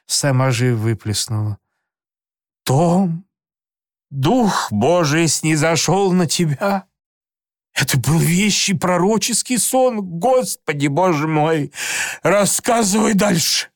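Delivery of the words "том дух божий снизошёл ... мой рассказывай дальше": higher-voiced, lightly voiced aunt in awe; aunt marvelling at her nephew's dream; awed aunt.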